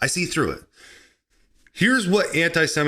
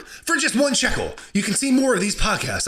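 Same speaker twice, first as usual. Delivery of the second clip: high-pitched wheedling pitch; mock sales plea; 7 semitones higher than usual. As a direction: pitch it in a raised, hammed-up voice. Sales plea for shekels returns.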